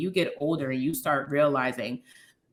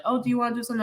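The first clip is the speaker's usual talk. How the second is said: lightly voiced mom, pitched higher; a hint of a gentle coaxing mom, higher; imitating mom; 8 semitones higher, much faster than usual. Mom offering to do something, mimicked higher.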